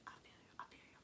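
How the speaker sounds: very soft confiding aside; hushed mock sympathy. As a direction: drop to a near-whisper for the viewers. Mock aside to girls watching.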